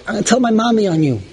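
quick, lightly voiced kid tattling; a hint of a squabbling child threatening to tell; childish tattling. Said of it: "You ever see children when they fight?".

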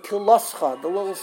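KILL drawn out, syllables after it swallowed; mangled word, mocked. Teacher imitating careless readers, mock swallowed word. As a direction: imitate someone butchering the word from KILL onward. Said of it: "they'll kill the word".

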